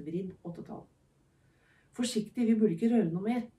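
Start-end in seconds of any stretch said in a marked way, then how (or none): 2.0-3.5 warning. Acted. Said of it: "sa Tycho".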